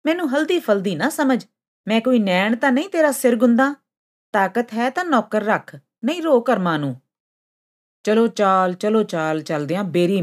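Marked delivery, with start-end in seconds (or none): 0.1-7.0 high, indignant snub; angry. A narrator's reading. Sund scorns the cat's grooming request, angry. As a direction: refuse haughtily, pitch raised throughout. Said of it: "ਗੁੱਸੇ ਵਿੱਚ ਸੁੰਡ ਬੋਲੀ".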